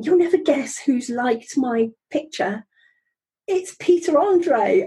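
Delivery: excited announcement. Retold or imitated. Telling the kitchen who liked her picture, excited. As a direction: relive breaking thrilling news, voice lifting on the name. Acting out her delighted celebrity news.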